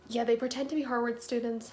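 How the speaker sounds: talking around a retainer; words slurred by a retainer in the mouth; wearing a retainer. Real, not acted. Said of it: "I have my retainers in".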